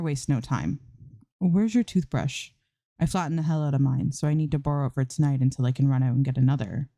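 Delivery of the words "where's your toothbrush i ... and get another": casual ask. Acted. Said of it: "Mira asks, casual".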